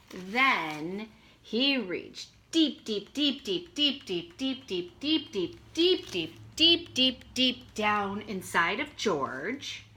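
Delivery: slow, drawn-out deeps; building suspense. A narrator's reading. Teacher building suspense for kindergartners, slow deeps. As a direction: stretch it out for suspense.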